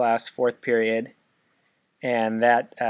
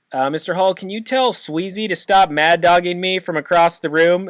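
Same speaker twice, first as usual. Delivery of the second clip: quoting a classmate; 7 semitones higher, 6 dB louder than usual. Retold or imitated. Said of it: "and John said".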